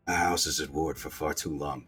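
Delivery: low, soft, pained prince; lightly spat, weary villain line; wounded prince spitting words. Acted. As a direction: force it out low on little breath. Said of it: "he spits".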